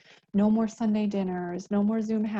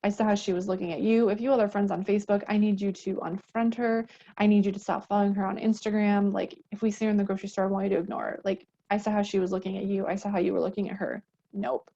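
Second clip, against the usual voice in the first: brisk, jealous demands, rushing ahead; mock controlling partner. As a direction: lay down the rules, a touch possessive. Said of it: "In an abusive relationship".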